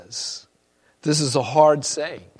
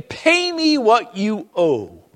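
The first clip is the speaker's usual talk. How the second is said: menacing servant; 6 semitones higher, slower than usual. Acted. Servant grabs debtor by the throat.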